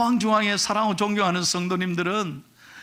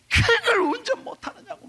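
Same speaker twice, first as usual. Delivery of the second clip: much higher, shouted scolding; retold angry yell. Car owner scolding the woman who scratched his car, angry high yell. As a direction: play the furious car owner yelling at the new driver. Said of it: "막 화를 내는데".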